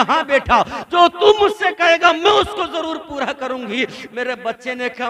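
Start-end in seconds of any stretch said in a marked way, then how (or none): 0.0-3.8 fervent vow. Acted. Mother vows to her son, rising to a shout. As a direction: swear it with all your heart.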